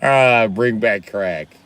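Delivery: slow, laughing mock of a rapper; imitating the rapper's laugh. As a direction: drag it out with a chuckle like the rapper. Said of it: "You got his laugh on though".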